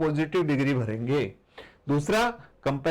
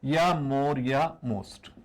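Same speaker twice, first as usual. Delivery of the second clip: very slow dictation; 3 semitones lower, much slower than usual. Shown as a demonstration. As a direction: drag out "more" and "most" slowly. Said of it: "teacher stresses key forms". (बहुत धीरे, शब्द-शब्द अलग करके)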